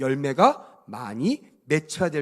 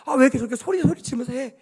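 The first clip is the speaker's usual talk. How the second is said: imitating a churchgoer's annoyed complaint, starting under the breath; irritated grumbling; 5 semitones higher than usual. Churchgoer complaining about the long sermon, mock irritation. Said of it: "이러면서 막 짜증나며 가는 사람도 있죠".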